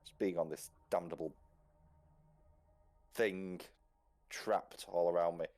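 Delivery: put-on a proud old man insisting he is fine; stiff old gentleman. Gentleman Hubert answering Louise, stiff and proper.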